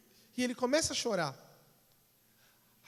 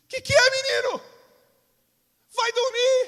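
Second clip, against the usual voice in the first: much higher, loud startled yell; angry shout; 12 semitones higher, 9 dB louder than usual. Acted. Father jolted awake yelling at his son to go to sleep. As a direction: bark him back to bed.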